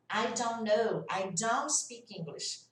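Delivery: slow "don't" running into the next word without T; dropped T in "don't". Shown as a demonstration. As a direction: swallow the T of "don't" mid-sentence. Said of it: "vai sumir o T". ("don't" sem T, emendando na palavra seguinte)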